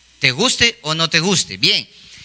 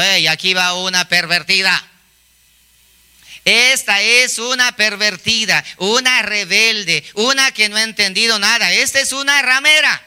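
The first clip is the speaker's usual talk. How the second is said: mock crying out; 2 semitones higher than usual. Preacher voices a dress denouncing its wearer, building mock outcry. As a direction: start measured, climb into a mild mock yell. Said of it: "va por la calle gritando".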